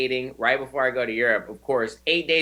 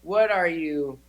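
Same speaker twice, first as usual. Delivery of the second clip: rising, higher, disbelieving questions; mock-amazed locals; 4 semitones higher than usual. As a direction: play the baffled locals hearing he's American. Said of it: "They're like".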